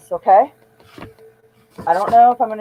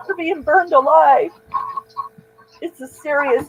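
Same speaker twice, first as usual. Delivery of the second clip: very emotional; 5 semitones higher than usual. Real, not acted. Vlogger reacting to a video she finds disturbing, emotional and higher. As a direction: voice lifted high with upset, lingering on each horror. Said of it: "I'm very emotional".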